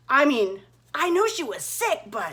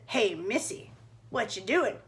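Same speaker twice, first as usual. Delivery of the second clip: a hint of a low, softer wolf voice; sly wolf; 5 semitones lower, 6 dB quieter than usual. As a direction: sweet-talk the girl, lightly sly. Wolf greets Red on path.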